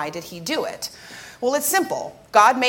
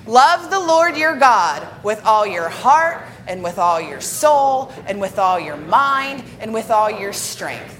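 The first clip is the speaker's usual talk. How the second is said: slow, measured scripture read-aloud; deliberate reading, each phrase given weight for all to join; reading aloud together; 5 dB louder than usual. Real, not acted. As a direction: lead the congregation through the verse. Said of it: "Let's read this out loud, church, together".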